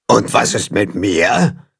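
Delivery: a lonely shaggy monster speaks up; monster voice from behind. A narrator's reading. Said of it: "kommt eine Stimme von hinten".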